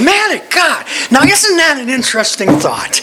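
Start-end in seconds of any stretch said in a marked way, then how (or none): 0.0-0.9 retold musing. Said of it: "Painting, I'm going".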